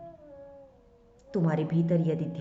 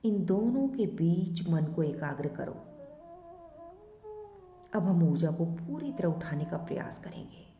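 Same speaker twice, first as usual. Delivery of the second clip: measured meditation instructions with long pauses; unhurried meditation guide's voice; guided meditation; 2 semitones higher than usual. Acted. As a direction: guide their attention inward, step by step. Guides focus on chakras and breath.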